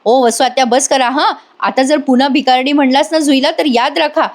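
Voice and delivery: mild mock shout of warning; retold yell. Nandini warning the aunt off the girl, retold yell. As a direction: warn her off, without real volume. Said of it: "आता ओरडून म्हणते".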